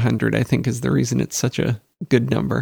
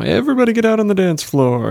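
wedding DJ voice; 9 semitones higher, 4 dB louder than usual. Retold or imitated. Imitating wedding DJ.

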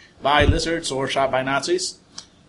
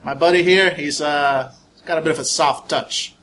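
menacing threat; 3 dB louder than usual. Acted. Character threatens captive, loud.

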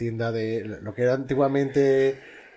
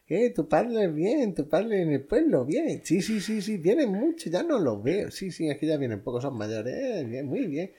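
higher, chatty neighbour imitation; imitating the neighbour; 5 semitones higher than usual. Imitating the neighbour greeting him about his parents. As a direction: lightly voice the old shopkeeper neighbour.

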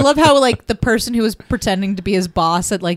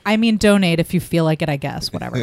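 nonchalant. Pretend. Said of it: "us going".

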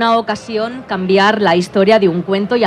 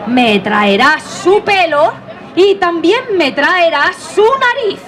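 queen voice; 4 semitones higher than usual. Acted. Queen orders the hunter.

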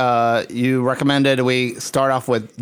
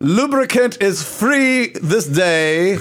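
town crier; 5 semitones higher than usual. Pretend. Proclaims a mock city decree.

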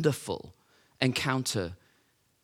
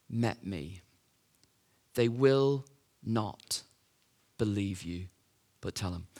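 low, soft, unhurried instruction with long pauses; quiet, measured commissioning; gently solemn; 3 semitones lower, 4 dB quieter, slower than usual. Acted. Jesus sending Mary to tell the brothers, gently solemn.

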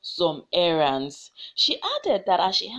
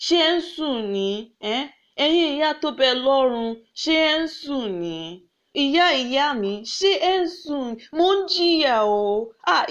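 crying out to ancestors; 3 semitones higher than usual. Acted. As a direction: beg the ancestors in anguish. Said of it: "she cried out to her ancestors".

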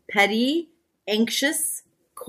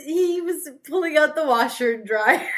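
giggling through the words; words bubbling with laughter; laughing; 4 semitones higher than usual. Real, not acted. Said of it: "Sorry, but pulling what out?".

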